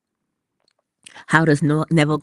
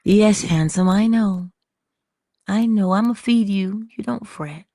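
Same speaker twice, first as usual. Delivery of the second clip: cooing to a pet; 3 semitones higher, 3 dB louder than usual. Real, not acted. Talking aside to a pet.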